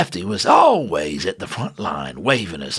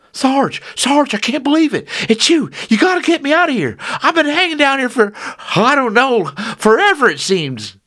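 put-on young soldier voice; 7 dB louder than usual. Lefty voiced, rescued soldier.

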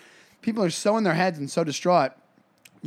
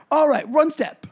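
loud, high party dance calling; hammed-up dance-floor instructions; mock dance caller; 5 semitones higher, 3 dB louder than usual. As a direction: call out dance steps like a party host, playfully.

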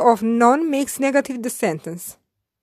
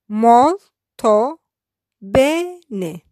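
Molto and Bene split apart with a pause between; syllabified; much slower than usual. Shown as a demonstration. Teacher splitting Molto bene word by word for learners. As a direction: break Molto bene into two separate words. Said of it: "I will syllabify each sentence".

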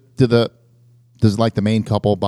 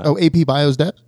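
talking through hiccups; 3 semitones higher than usual. Real, not acted. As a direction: catch a hiccup mid-question. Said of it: "I have the hiccups now".

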